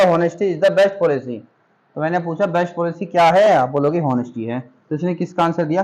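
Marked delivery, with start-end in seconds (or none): 0.0-1.4 slow read-out. Shown as a demonstration. Teacher quoting the sentence back to students, slow. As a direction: read "Honesty is the best policy" very slowly, word by word. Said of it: "इसने क्या बोला".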